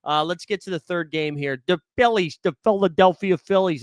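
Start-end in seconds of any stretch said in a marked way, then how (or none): 1.7-3.8 1 bad Philly accent. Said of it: "It's a terrible Philly accent".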